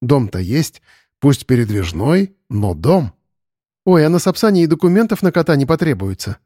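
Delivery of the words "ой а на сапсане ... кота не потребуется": joyful. Acted. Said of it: "радостно воскликнула Ульяна".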